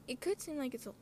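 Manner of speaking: talking through a burp; words caught on a burp. Real, not acted. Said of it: "sorry, I'm burping, like, really bad".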